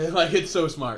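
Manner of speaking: laughing. Real, not acted. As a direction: laugh out "it's so smart".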